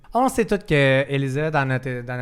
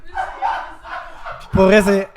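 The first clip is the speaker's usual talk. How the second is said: high squeal; 6 semitones higher, 4 dB louder, much slower than usual. Real, not acted. Apology, voice jumps very high.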